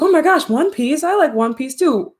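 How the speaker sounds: high, loud mock fanboy gushing; put-on high-pitched delight; imitated excited kid. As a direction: gush like an overexcited anime kid. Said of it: "the clip of the kid".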